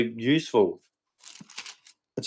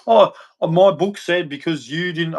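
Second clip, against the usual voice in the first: higher-pitched mock whine of an excuse; 5 semitones higher than usual. Ranter mimicking believers who cite their book, mocking. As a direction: imitate someone pleading their book, pitched up.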